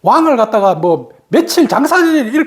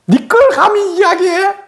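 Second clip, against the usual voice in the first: stern elder; 9 semitones higher than usual. Retold or imitated. Scolding voice of Gyeongsang elder.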